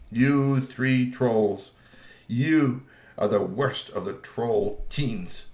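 very slow, weighty pronouncement; stern verdict. Acted. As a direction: drag each word out like a judge. King sentencing the teens.

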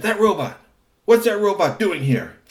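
high, loud outburst; he spots what was stolen; outraged villain. A narrator's reading. Kusumono spotting the robot, outraged. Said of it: "He said".

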